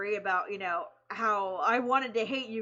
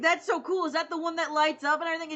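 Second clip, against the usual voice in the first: excited; 5 semitones higher, faster than usual. Retold or imitated. Quoting the excited voice actor.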